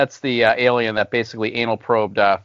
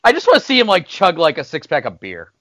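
excited; 4 semitones higher, 5 dB louder than usual. Real, not acted. Excited mock cheer.

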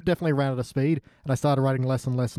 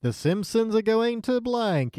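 mock trailer voice; 8 semitones higher, much slower than usual. Mock trailer title read.

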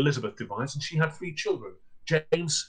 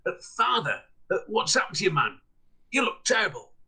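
put-on higher, alarmed young man; shocked son; 5 semitones higher than usual. Son finding his twisted father, alarmed. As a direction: gasp at your father's state.

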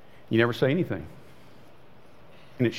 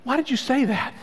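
mock God; 7 semitones higher than usual. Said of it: "make God go".

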